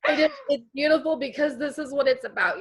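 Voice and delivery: choked up, pushing the words out through crying; real tears. Real, not acted. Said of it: "I'm sorry I broke down crying".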